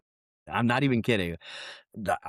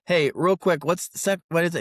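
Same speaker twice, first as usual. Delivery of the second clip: raised call across the room, pitched up; 6 semitones higher, 4 dB louder than usual. Retold or imitated. Husband calls out to his wife across the room, raised and urgent. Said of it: "I called out to her and I go".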